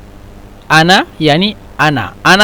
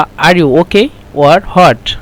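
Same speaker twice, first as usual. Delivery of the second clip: slow teaching read; much slower than usual. Shown as a demonstration. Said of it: "يعني".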